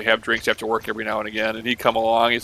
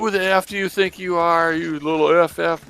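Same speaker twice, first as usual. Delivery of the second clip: higher-pitched mock telling-off; mock verbal abuse; 7 semitones higher than usual. Imitating the abusive boss's barrage, mock outrage. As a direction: play at berating someone, pitched up and dragging the final insult. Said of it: "literally the verbal abuse, the, the barrage".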